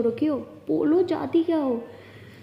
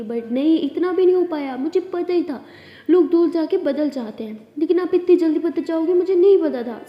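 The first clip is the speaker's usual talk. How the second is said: rising accusation; 3 semitones higher, 5 dB louder than usual. Acted. Tara accuses Siya of changing.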